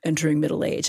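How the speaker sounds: imitating a calm, low-key doctor. Gynecologist answering an angry patient, very calmly. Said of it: "he very calmly was like".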